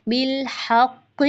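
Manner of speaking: हक़ with the qaf held firm. Shown as a demonstration. Teacher showing the pausal qaf. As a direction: stop hard on the qaf of हक़. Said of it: "यहाँ पर क़ाफ पर जमाव होगा".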